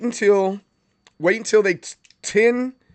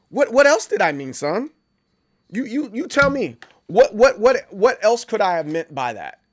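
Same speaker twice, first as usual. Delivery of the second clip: higher, stammering, indignant demand; mock parental outrage; 4 semitones higher than usual. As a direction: act the incredulous parent. Acted parent demanding an answer.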